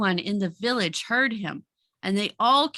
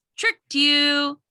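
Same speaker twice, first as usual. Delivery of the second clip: very happy, delighted, gleeful voice, pitched up; 5 semitones higher, 4 dB louder than usual. Reading a character's line of dialogue aloud, gleeful very happy tone. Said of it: "he says it like he's very happy about it".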